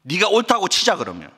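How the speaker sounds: lightly voiced God reasoning with Jonah; God addressing Jonah. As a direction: concede the point as God, mildly challenging. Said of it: "하나님께서 이렇게 지금 이야기하는 거죠". (요나를 타이르는 하나님 말투)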